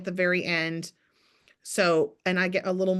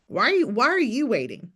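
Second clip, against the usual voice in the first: a little louder, pressing the question kindly; confident urging; 3 semitones higher, 4 dB louder than usual. Shown as a demonstration. Coach repeating her question to a client, confidently urging. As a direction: nudge her to stop waiting. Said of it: "That's my tone".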